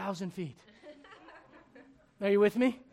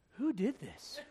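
laughing disbelief; 2 semitones higher, 7 dB quieter, slower than usual. Retold or imitated. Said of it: "You know what I thought?".

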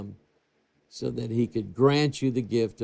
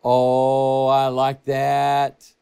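savoring; 3 dB louder, much slower than usual. Real, not acted. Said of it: "savoring the verse".

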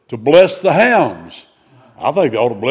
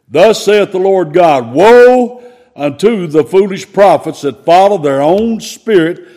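put-on proclaiming like an old prophet; mock biblical prophet; 2 semitones higher than usual. Pronounces a scripture woe.

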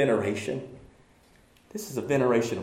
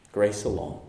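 ordinary talk

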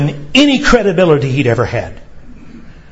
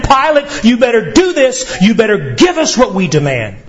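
a higher, demanding mob voice; commanding crowd; 5 semitones higher than usual. Retold or imitated. Preacher voicing the crowd's demand on Pilate, commanding. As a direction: order Pilate about like a mob. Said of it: "in the form of a command".

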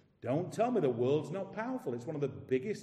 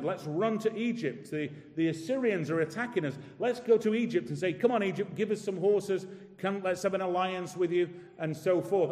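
eager, raised voice of a people running to Egypt; panicked plea; 3 semitones higher, 4 dB louder than usual. Retold or imitated. Preacher voicing the frightened people, pleading for Egypt's help. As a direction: urge the alliance anxiously.

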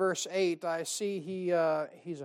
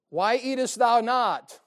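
husband's question; 4 semitones higher, 7 dB louder, slower than usual. Retold or imitated. Husband quoting scripture, slow.

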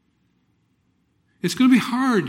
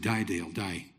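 said out loud; 10 semitones lower, 7 dB quieter than usual. Retold or imitated. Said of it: "I said it out loud".

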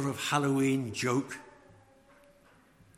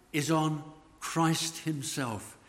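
ordinary talk

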